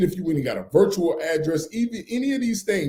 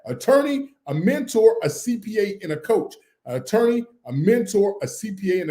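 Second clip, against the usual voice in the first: loud list. Shown as a demonstration. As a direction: ring out the four names for the chat. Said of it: "Somebody write in the chat".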